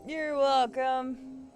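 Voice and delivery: slow singsong courtesy; drawn-out quip. Real, not acted. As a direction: stretch the words out playfully. Drawn-out quip after a kill.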